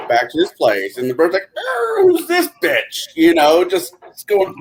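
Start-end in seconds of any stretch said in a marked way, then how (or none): 1.6-3.1 cussing parakeet. Acted. Parakeet insults girlfriend.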